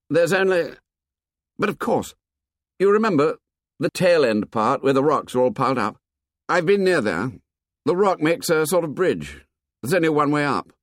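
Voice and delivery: reluctant. A narrator's reading.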